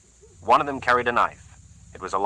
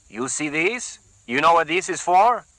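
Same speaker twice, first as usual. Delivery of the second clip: threatening thug; 8 semitones higher, 3 dB louder than usual. A narrator's reading.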